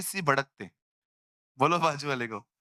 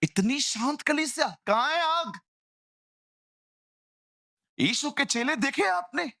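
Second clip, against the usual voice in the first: rousing challenge; 10 semitones higher than usual. Real, not acted. Preacher rousing congregation.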